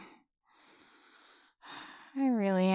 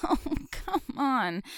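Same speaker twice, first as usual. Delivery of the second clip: laughing; 4 semitones higher than usual. Acted. Laughs while stuck.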